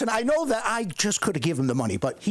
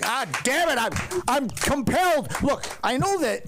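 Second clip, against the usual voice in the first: squeaky hype-man calling for Patty; high put-on hype voice; 9 semitones higher than usual. Comic calling out to the crowd in a high hype voice.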